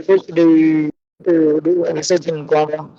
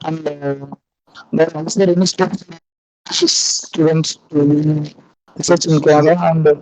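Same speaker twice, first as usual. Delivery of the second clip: call dropping out. Real, not acted. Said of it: "your voice is breaking".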